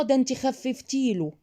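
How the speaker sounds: critic's accusation. Acted. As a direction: play someone blaming a mother, drawn out. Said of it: "اي حد هيقول".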